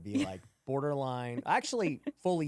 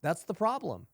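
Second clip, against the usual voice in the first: agreeing; 6 semitones higher, 3 dB louder than usual. Retold or imitated. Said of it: "people are like".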